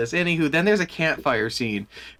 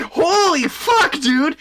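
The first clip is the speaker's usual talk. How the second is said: mock horror; 11 semitones higher, 4 dB louder, much slower than usual. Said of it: "it's like".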